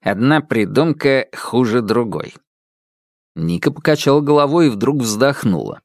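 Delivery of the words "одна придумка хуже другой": smug dismissal. Acted. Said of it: "ухмыльнулся".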